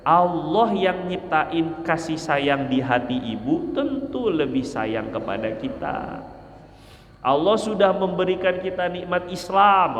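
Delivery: mildly softened, tender encouragement; gentle reassurance. Shown as a demonstration. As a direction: reassure him tenderly of God's mercy. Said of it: "motivasi tentang rahmat Allah".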